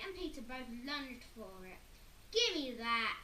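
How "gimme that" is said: loud grabbing yell; Henry yelling for the toy. A narrator's reading. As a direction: yell as you snatch. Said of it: "yelled Henry".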